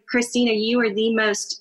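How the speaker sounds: mock Italian accent. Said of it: "in a very strong Italian accent".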